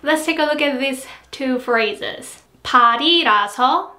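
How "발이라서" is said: 발이라서 with the 이 kept low; low pitch after 발. Shown as a demonstration. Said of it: "first E ... its pitch is lower".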